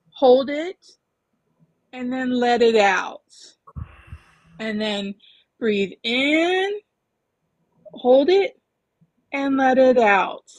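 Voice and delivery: slow calm breathing cue; walk them through the breath; guided breathing. Shown as a demonstration. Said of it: "guiding a breathing exercise".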